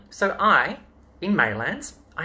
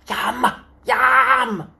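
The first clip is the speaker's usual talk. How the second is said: playful yum; 7 semitones higher, 5 dB louder than usual. Acted. Reacting to cake in story.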